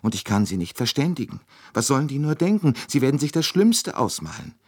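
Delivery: high, quickening mild tearful worry; a touch of weeping panic; lightly voiced upset Swedish woman; tearful Swedish lady. A narrator's reading. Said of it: "sagte die Schwedin weinend".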